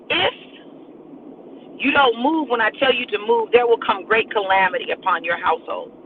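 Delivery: prophetic warning. Acted. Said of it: "God said".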